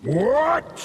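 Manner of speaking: high startled what; jolted from rest. Acted. God startled in his hole.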